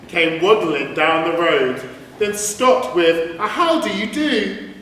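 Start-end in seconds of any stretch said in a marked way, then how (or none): 3.5-4.7 high, chirpy little duck greeting. Acted. The duck greets the rat, high and polite. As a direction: greet him brightly like a plucky duck.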